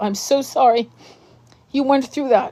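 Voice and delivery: choked-up, teary voice, catching, close to tears. Answering a viewer who says their children were taken: tearing up. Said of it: "fucking tearing up".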